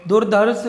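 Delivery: दुर्धर्ष said with an aspirated ध in the middle, "dur-dharsh"; correct form. Shown as a demonstration. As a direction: pronounce दुर्धर्ष with a breathy ध. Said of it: "ध का प्रयोग". (दुर्धर्ष में ध साफ़ बोलें)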